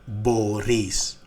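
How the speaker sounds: μπορείς stressed on ρείς; stress on last syllable. Shown as a demonstration. Teacher conjugating for learners, μπορείς stressed on its last syllable. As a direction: put the weight on the end of μπορείς. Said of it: "on the last syllable".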